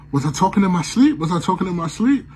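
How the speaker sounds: fast, high, alarmed; asking his girlfriend, fast and alarmed; panicked questions. Retold or imitated. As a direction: rush it out, freshly woken and scared. Waking up panicked.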